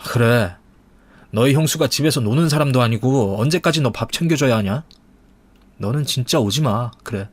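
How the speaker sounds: lightly voiced fed-up older brother; mildly angry scolding. Husband defending his wife to his brother, mildly angry scolding. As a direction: tell him off with restrained anger.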